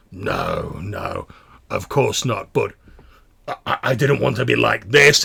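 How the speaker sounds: lightly voiced defensive mutant; backpedalling smaller mutant. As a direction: stammer a protest as you back down.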